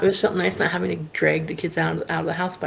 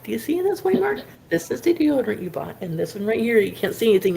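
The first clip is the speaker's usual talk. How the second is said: exasperated showing; 5 semitones higher than usual. Retold or imitated. Showing husband the ruined shirt.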